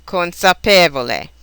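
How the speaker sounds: "consapevole" as con-sa-PE-vo-le; stress marked syllable. Shown as a demonstration. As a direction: lean on the PE of "consapevole". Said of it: "syllable that gets stressed, like this".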